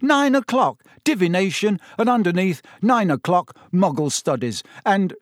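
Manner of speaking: high, loud amazed reading-out; can't believe what he's reading; a boy amazed at his friend's timetable; disbelieving. A narrator's reading. Ron disbelieving at schedule.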